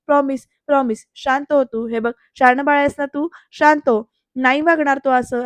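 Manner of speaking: mildly coaxing, gentle delivery; soothing reassurance. Retold or imitated. Naik-bai promising Jayanti he will behave, mild soothing. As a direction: reassure lightly, as to a child.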